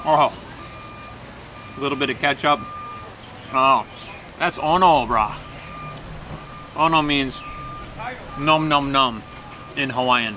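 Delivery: chewing while talking; talking between bites; mouth full. Real, not acted. Seen 4: Bites hash browns off spoon at 0.8, then chews while looking down.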